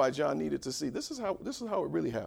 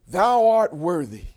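Thou loud and held long; stress on Thou; 3 semitones higher, 11 dB louder, slower than usual. Shown as a demonstration. Preacher returning to the verse, weighty stress on "Thou". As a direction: lean slowly on "Thou", then step down. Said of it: "the word thou is emphatic".

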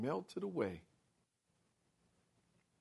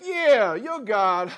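taunting jeer; 2 semitones higher, 4 dB louder, much slower than usual. Acted. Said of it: "he taunted".

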